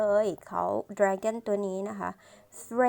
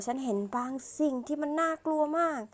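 mild acted cry; 6 semitones higher than usual. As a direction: lightly act out crying out. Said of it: "เขาร้องนะคะ".

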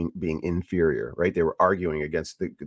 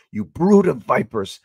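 stern rebuke; 5 semitones higher, 6 dB louder than usual. Retold or imitated. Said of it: "he refers to the Pharisees as".

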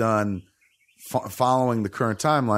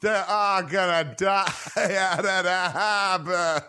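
slow, higher, hammed-up Boston accent; mock Boston accent; 8 semitones higher, slower than usual. Mocking Diane Lane's Boston accent, hammed-up Boston accent. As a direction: butcher a Boston accent on purpose. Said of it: "I could do a better Boston accent than that".

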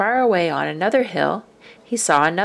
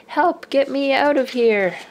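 higher, louder cry for help; yell for help; 7 semitones higher, 3 dB louder than usual. A narrator's reading. Littlest dinosaur stuck in a footprint, yelling for help. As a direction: call out from the mud. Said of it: "having to yell".

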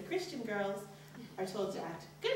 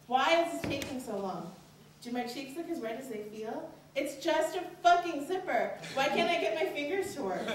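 panicky, higher and louder, with a laugh at the end; rising inner panic; 5 semitones higher, 4 dB louder than usual. Acted. Teen fumbling a zipper, panicking in her head. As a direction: spiral into flustered panic.

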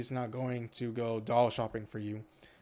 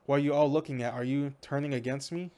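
paranoid snap; 3 semitones higher than usual. Acted. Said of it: "Sierra's eyes go wild".

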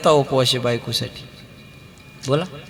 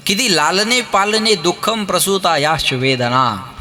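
verse recitation; slower than usual. Acted. Sanskrit verse quoted.

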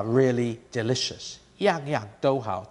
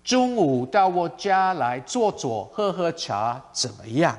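friendly casual invitation; 2 semitones higher than usual. Shown as a demonstration. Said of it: "it gives a softer, friendlier, more casual tone of voice".

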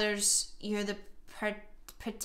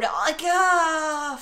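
frustrated groan; 3 semitones higher, 4 dB louder than usual. Real, not acted. Gives up in frustration mid-argument.

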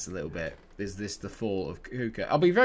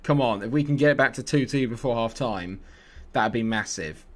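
usual speaking voice

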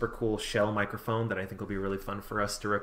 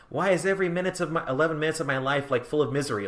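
Squidward voice; 5 semitones higher, faster than usual. Retold or imitated. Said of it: "where Squidward's like".

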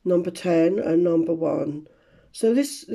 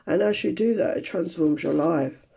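raspy, hoarse, voice giving out; strained hoarse voice, losing it. Real, not acted. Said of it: "I'm losing my voice".

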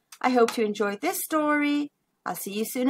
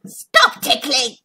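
chuckled; 4 dB louder, slower than usual. Acted. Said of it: "Tiger chuckled".

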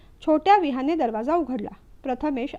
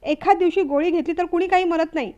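angry snap; 3 semitones higher, 3 dB louder than usual. Acted. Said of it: "रागाने माधवी पण मग चटकन उत्तरली".

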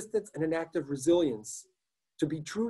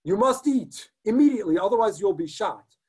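barked, much higher and louder command; harsh order; 6 semitones higher, 6 dB louder than usual. Acted. SS man ordering fasting Jews to eat, harsh shouted command. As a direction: snap the order at the prisoners like a guard.

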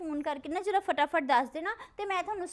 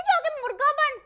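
retold teacher's order; 8 semitones higher, 5 dB louder than usual. Retelling her teacher's punishment order.

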